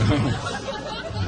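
a quick breathy chuckle; amused chuckle. Real, not acted. Comic chuckling at his own joke. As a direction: chuckle at your own punchline.

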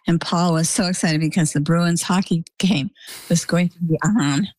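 usual speaking voice

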